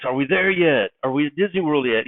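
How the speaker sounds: lightly acted impatient excitement; enthusiastic child. Kid asking every five seconds on the car trip, enthusiastic. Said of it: "you love his enthusiasm".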